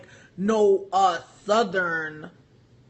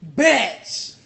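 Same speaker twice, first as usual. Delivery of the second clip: outraged exclamation; 5 dB louder than usual. Real, not acted. Outraged at film accent.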